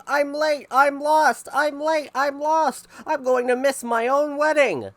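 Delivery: high, loud panicked cry; high frantic yell of a late man. A narrator's reading. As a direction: shout it like a lost groom in a rush. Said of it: "and he was yelling".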